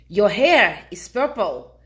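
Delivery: loud, slow, goofy stranger; lightly voiced pushy guy. Imitating pushy stranger in line.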